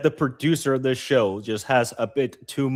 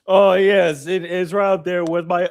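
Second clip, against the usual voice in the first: villain voice; 3 semitones higher than usual. Pretend. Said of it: "other guy's name is Stachio".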